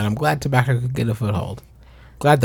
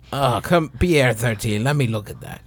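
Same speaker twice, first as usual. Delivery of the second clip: put-on French accent. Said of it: "your French accent".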